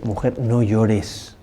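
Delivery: muy despacio, con ternura, consolando; tierno y lento. Acted. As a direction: como quien calma a una madre que llora. Jesús consuela a la viuda. (Jesús consuela a la viuda: tierno y pausado)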